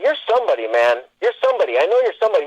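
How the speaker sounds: high-pitched, retold excited insistence; insistent recognition. Homeless man telling an actor he knows him, retold insistence. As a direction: press the point, voice jumping up.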